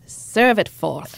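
slow grand declaration; epic proclamation. Pretend. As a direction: proclaim it like a king. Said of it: "sounds so much more epic".

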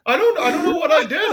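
high, loud mock-innocent British star; a singer. Singer answering a scolding, high mock-innocent voice. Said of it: "this is my impression".

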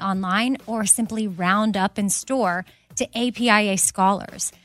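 brisk, polished sponsor read; upbeat ad read for listeners. Acted. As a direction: sell it like a podcast ad.

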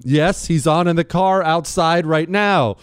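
lightly sassy, slow reply; a little sass. Retold or imitated. Host reading a fan's reply with light sass. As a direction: give it a hint of sass. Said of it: "with a little sass in her voice".

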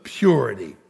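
ringing, rhythmic sermon climax; full-force preaching. Acted. Preacher proclaiming God's holiness to the congregation, full-force preaching. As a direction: drive each phrase home with stretched key words.

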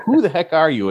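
high, punchy host teaser; excited. Acted. Repeats teaser.

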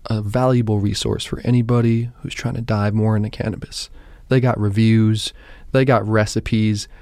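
measured podcast ad read; host delivering a scripted promo; sponsor read. Acted. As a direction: read the sponsor plug in clear, punched phrases. Reads the podcast sponsor spot.

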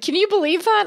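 high incredulous squeak, imitating mom; mom's disbelief. Quoting mom's shocked reaction to the ice chests, in a high squeak. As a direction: pitch it way up in mock disbelief. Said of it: "My mom's like".

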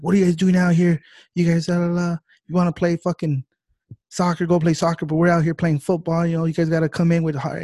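loud, high mock coach rant at his players; yelling coach. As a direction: bark at the team like an angry coach. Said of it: "he's yelling at his players".

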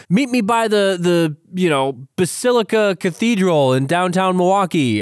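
high, hurried shady stranger; sketchy guy voice. Retold or imitated. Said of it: "he's just like".

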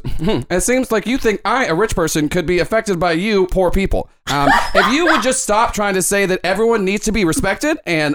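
lightly voiced condescending rich anchor; a hint of a smug rich pundit lecturing; Ken De Niro smug. Host lecturing the poor heroes, lightly smug anchor. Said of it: "He goes, he goes".

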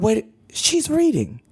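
high, slow mock shock; dawning disbelief. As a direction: realise slowly that you were insulted. Realising she is being mocked.

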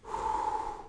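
long sighing breath out; calming exhale. Retold or imitated. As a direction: reenact breathing out to calm down. Reenacts calming himself down.

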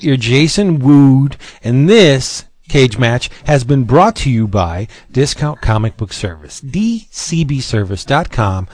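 slow, punchy sponsor pitch; hard sell ad. Acted. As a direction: sell it like a radio ad. Sponsor ad read.

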